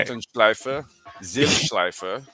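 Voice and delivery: loud, proud German-accent place names. Shown as a demonstration. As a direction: punch out the German words like a local. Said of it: "what's some of the other words?".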